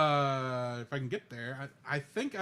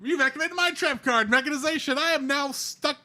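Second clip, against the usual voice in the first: laughing; 8 semitones higher, 8 dB louder than usual. Pretend. Laughing Yu-Gi-Oh parody.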